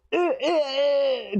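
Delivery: high effortful "eh, eh, eh"; straining grunts. Acted. Player acts prying a child off their back, straining grunts.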